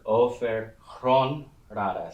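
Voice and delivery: "Ofer Chron Rada" said slowly, each word separate; slow Old English reading. Shown as a demonstration. Teacher reading Beowulf aloud, slow Old English. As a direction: draw out "Ofer Chron Rada" to show the alliteration. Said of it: "so that's Whale Road".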